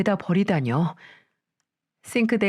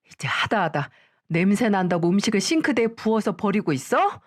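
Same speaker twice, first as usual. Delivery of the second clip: angry scolding; 2 semitones higher than usual. Acted. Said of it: "소리를 쳤죠".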